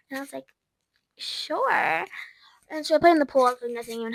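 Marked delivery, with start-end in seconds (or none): 1.2-2.1 unvoiced meek reply; whispered reluctant yes; whispered sure. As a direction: barely breathe the word.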